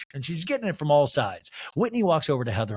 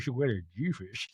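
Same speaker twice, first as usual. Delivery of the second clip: Meredith laughing; 2 semitones lower than usual. Retold or imitated. Castmate laughing at her rival's insult, lowered mock-amused voice. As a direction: imitate a castmate laughing through the line, pitched down. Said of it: "Meredith starts laughing".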